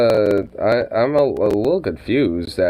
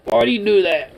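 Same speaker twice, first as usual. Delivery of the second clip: higher playful pet talk; teasing the dog; 5 semitones higher, much faster than usual. Real, not acted. Owner teasing the timid dog, higher playful voice. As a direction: tease the pup gently.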